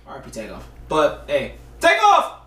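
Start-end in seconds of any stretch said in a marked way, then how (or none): 1.8-2.4 sudden high-pitched shout; high, punched call-out. Pretend. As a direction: burst out with it, high and loud. Sudden loud shout of rapper's name.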